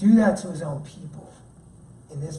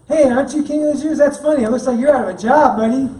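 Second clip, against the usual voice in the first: high, louder taunting with laughs; mocking laughter; 5 semitones higher, 7 dB louder, faster than usual. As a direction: gloat at the king while laughing.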